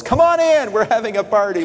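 high, bright call to come in to the party; a father joyfully calling his son inside; welcoming father. Acted. Father calling the elder son in, high and welcoming. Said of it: "And the father says".

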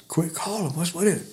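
soft, hushed question; retold puzzled whisper. Hunter whispering back, confused, to Johnny. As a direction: ask under your breath.

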